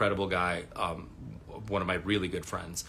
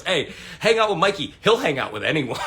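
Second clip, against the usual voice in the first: laughing quote; 6 semitones higher, 7 dB louder than usual. Retold or imitated. Friend's teasing quip retold.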